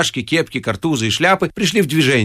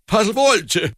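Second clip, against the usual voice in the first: high-pitched protest; indignant wail; 8 semitones higher, slower than usual. A narrator's reading. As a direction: butt in with a squawk. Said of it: "завопил он".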